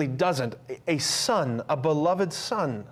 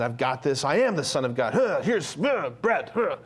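mock swaggering boast, breaking into bobbing grunts; puffed-up chest. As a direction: puff out the chest and parody a show-off. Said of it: "puffing up his chest and saying".

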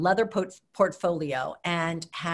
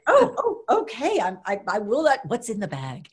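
high flustered start, then curious; startled, then ask sheepishly; 4 semitones higher, 3 dB louder than usual. Retold or imitated. Ambassador caught off guard by the guard, flustered.

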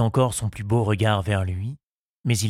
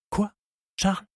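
gentle question; 11 semitones higher than usual. A narrator's reading. Henriette prompts Charles to propose, gently. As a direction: ask it tenderly, inviting more. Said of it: "demanda-t-elle avec douceur".

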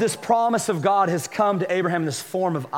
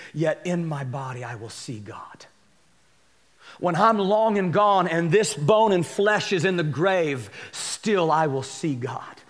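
scripture reading. Acted.

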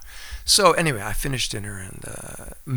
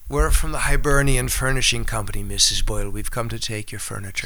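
light stage Irish, opening louder then easing off; Irish accent; 4 dB louder than usual. Retold or imitated. Actor's stage entrance in rehearsal, light Irish accent. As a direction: deliver the line with a hint of an Irish accent. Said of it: "can you do an Irish accent".

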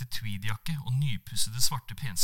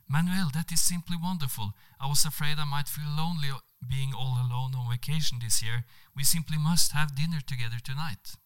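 higher, eager delighted voice; 4 semitones higher than usual. Acted. Monica inviting Manuel to dinner, delighted. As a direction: jump at the chance, delighted.

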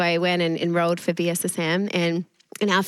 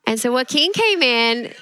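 laughing shout; 4 semitones higher, 4 dB louder than usual. Real, not acted. Laughing buildup to the story.

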